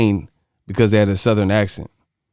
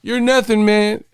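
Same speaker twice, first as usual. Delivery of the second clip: imitating Remy; 10 semitones higher than usual. Acting Remy from Higher Learning, a high scared rant. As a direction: shout it like a panicked gunman. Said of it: "he was pointing the gun all scared".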